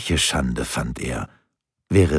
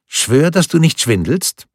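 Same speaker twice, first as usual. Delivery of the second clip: put-on high, louder insistent boy's voice; demanding child; 9 semitones higher, 6 dB louder than usual. Boy demands grandfather swear he isn't fibbing, high insistent child voice. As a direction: make him swear it, like a pushy kid. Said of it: "verlangte der Kleine".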